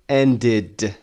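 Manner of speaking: "ended" in two syllables, end-id. Shown as a demonstration. Teacher drilling past forms, "ended" with full id ending. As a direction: sound out the id in "ended".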